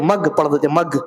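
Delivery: مگ said with a hard گ instead of غ; the common mistake مگ, like a tea mug; wrong g sound. Shown as a demonstration. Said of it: "مگ نہیں ہونا چاہیے". (غ کی جگہ گاف والا غلط مگ)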